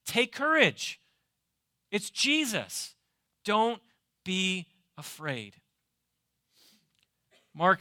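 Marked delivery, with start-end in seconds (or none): 0.1-5.6 reassuring. Shown as a demonstration. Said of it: "Hear those words wherever the fear is".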